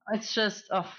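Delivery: normal talking voice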